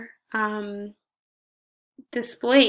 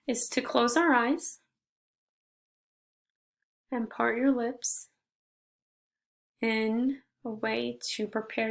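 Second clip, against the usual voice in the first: gentle meditation guide with long pauses between phrases; guided meditation. Shown as a demonstration. Leading listeners in reflecting on gratitude, guided meditation. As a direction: guide them through breathing, slightly softened, unhurried pauses.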